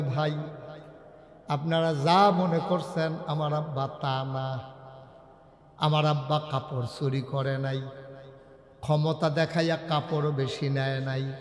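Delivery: low, subdued plea; a touch of sorrow, defending a father; tearful appeal. Acted. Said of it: "চোখের পানি ছেড়ে দিয়ে কাঁদতেছেন". (নিচু গলায় করুণ আবেদন)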